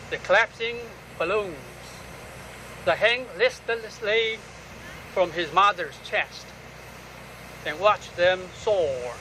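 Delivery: solemn, unhurried poetry recital; poem reading. Acted. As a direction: read the poem phrase by phrase, letting each line hang. Reads own poem aloud.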